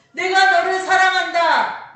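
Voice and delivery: loud, high, slow declaration of love; preacher's ringing cry; emphatic proclamation. Acted. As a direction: proclaim it at full force to the congregation.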